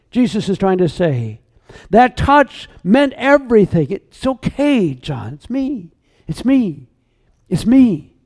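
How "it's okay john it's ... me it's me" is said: soft, tender comfort, much softer; gentle reassurance. Acted. Preacher voicing Jesus calming a frightened John, soft and tender. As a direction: soothe a frightened friend softly.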